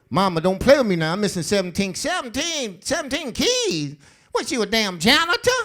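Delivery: mock-panicked son begging his mother; frantic plea. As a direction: rattle it off in a panic. Acted argument with mama.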